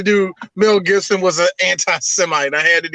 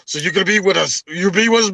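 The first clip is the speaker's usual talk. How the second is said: lightly voiced Scottish Highlander; rallying speech in a put-on Scottish accent; hint of a Highland warrior's Scottish accent; mock Highlander accent; faster than usual. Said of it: "what's that accent? It's Highlander accent".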